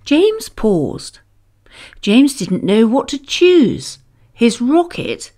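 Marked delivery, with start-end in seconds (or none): none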